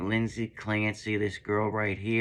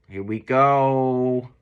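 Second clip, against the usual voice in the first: excited; 4 semitones higher, 7 dB louder, slower than usual. Real, not acted. Hype start of reaction video.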